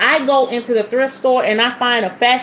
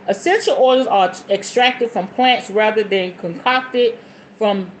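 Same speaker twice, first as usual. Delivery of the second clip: measured book-reading delivery; reading aloud. Real, not acted. Reading a book on oils to viewers, reading aloud. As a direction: read it out as instruction.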